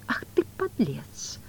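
slow, whispered musing; pensive. Acted. Woland eyeing the cheating bishop, pensive and slow. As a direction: mutter it thoughtfully. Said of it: "задумчиво сказал Воланд".

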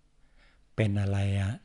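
mimicking a monk's slow drawl; drawn-out slow speech. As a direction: stretch every syllable out slowly. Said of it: "ต้องพูดยานๆ ยืดๆ ช้าๆ".

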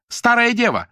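very high, loud jeering yell; shouted insult. A narrator's reading. Lyuda jeers at Nadya, shrill shouted insult. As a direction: jeer the insult out.

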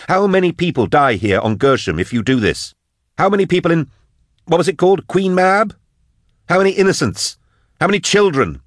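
very high, urgent questioning; outraged Drusha. Acted. Voices Drusha demanding the death toll.

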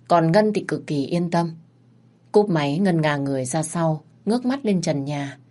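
ordinary delivery, nothing marked

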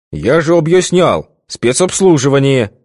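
loud nasty repeat. A narrator's reading. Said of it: "громко и противно повторил Витька".

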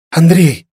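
high strained call of his name; a lightly voiced squeeze of protest; girl gasping his name; choked girl's cry. Veta choking in his hug.

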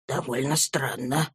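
softly, under the breath; quiet voice. A narrator's reading. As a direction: keep it low and hushed. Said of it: "отвечал Кленом также тихо".

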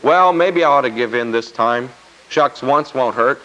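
a tempted man excusing himself; lightly voiced waverer giving in; wavering believer. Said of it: "you don't start wavering".

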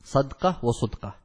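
صدقة وصدقة said as ṣudqa then ṣadqa with the dal silent; صدقة وصدقة contrasting a rounded ṣu with an open ṣa, dal without a vowel; صدقة وصدقة with ṣudqa and ṣadqa, both with a silent dal; sudqa and sadqa. Shown as a demonstration. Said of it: "بسكون الدال مع ضم الصاد وفتحها".

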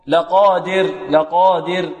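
لقادر said slowly, stressing the vowel under د; measured لقادر with the final syllable set out; kasra demo. Shown as a demonstration. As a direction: dwell on the دِ of لقادر before the ر. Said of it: "كذلك نحافظ على الكسر".

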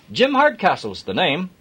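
hearty Yorkshire driver; broad Yorkshire accent. Acted. Jim offering Adam a lift, broad Yorkshire accent. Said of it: "broad Yorkshire accent".

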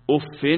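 أف ending in -in with tanwin; uff with kasra. Shown as a demonstration. Teacher demonstrating the kasra reading with tanwin. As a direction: say أف as uffin, kasra with nunation. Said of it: "وبكسرها".

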